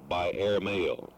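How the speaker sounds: slow and deliberate. Real, not acted. Caller repeating for a foreign delegate, slowly. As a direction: draw it out so the listener follows. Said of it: "I will speak more slowly".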